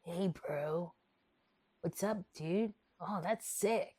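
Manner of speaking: lightly voiced skater dude; a hint of a mock skater; skater bro voice. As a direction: put on a laid-back bro greeting. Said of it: "Or I'll just be like".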